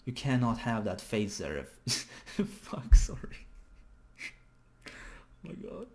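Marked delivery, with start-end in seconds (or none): 1.9-5.9 helpless laughter breaking into the words; cracking up. Real, not acted. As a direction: try to apologise through a fit of laughter. Cracks up at the face.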